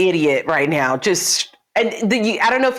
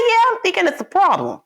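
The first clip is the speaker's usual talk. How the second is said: mock hesitant agreement; 11 semitones higher than usual.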